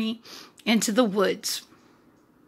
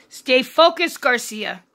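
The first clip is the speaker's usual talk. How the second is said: self-pep talk; 4 dB louder than usual. Real, not acted. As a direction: coach yourself back on track.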